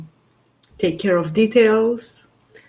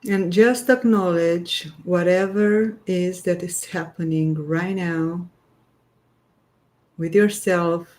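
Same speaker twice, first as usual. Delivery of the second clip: unhurried guiding voice with long pauses; guided grounding meditation. Real, not acted. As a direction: gently lead listeners into their breath, leaving space between phrases. Leads a short grounding meditation.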